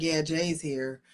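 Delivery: lightly voiced ex-husband, slow and deadpan; lazily unbothered, slowed right down; a hint of the calm ex, slow; slow mock drawl. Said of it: "he was like".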